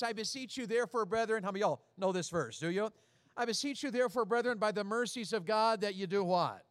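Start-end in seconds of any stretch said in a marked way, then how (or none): 0.0-1.4 scripture reading. Shown as a demonstration. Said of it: "Romans says it like this". 3.4-6.6 scripture recitation. Shown as a demonstration. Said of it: "Romans says it like this".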